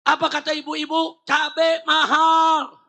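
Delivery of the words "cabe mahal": high, drawn-out mock protest yell; imitated crowd complaint, stretched long; protesting mothers' cry. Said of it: "Ibu-ibu teriak".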